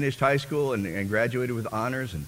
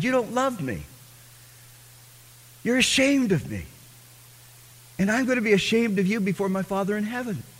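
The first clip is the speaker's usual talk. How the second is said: rebuking Lord; 10 semitones higher than usual. Retold or imitated. The Lord rebuking him, voiced.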